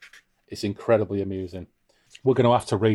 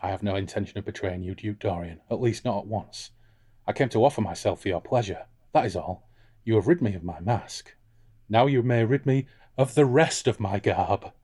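Flana; 3 dB quieter than usual. Acted. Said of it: "I'm gonna be Flana".

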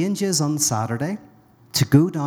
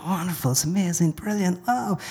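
overjoyed wonder, climbing higher on each word; elated; 5 semitones higher than usual. Acted. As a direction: marvel with rising joy. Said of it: "Well, he's elated".

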